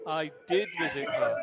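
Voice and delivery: "did" stressed, then falling away; emphasis on "did". Shown as a demonstration. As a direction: punch the word "did" to insist. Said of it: "we are adding emphasis".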